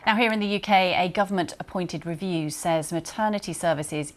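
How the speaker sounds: steady, formal newsreader delivery; news read. Acted. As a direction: read the intro like a bulletin. Presenter reads news intro.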